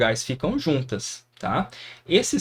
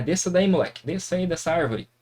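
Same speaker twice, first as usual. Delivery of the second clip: a hint of a bossy mom, raised pitch; scolding mother; 4 semitones higher, faster than usual. Mother to child up a tree, mildly scolding. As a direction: order the kid down like a mother would. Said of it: "quando a mãe fala".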